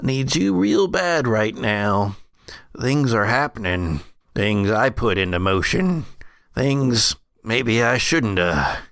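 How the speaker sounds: put-on old brother, urgent and regretful.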